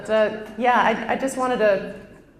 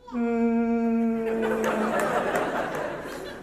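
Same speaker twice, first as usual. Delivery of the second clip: low droning Chewbacca-like cry; low baby wail; 2 semitones higher, 4 dB quieter than usual. Shown as a demonstration. Comedian showing how she cried as a baby, low wail. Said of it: "Mine was more of like a".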